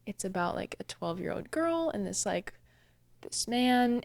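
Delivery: imitating a quiet hush; retold hushed tone. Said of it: "I kinda whispered".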